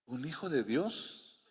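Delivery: very soft, slow disbelief; hushed, drawn-out gentle reproof; incredulous question. Real, not acted. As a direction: question it quietly, stretching the words. Preacher repeats doubting question after panic.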